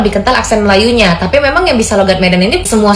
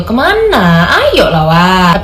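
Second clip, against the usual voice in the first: swaying lilting Medan accent; 2 semitones lower, much slower than usual. Shown as a demonstration. Inviting a friend along, in a swaying Medan accent. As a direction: let the words swing, Medan style. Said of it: "Logat Medan biasanya lebih ngayun gitu".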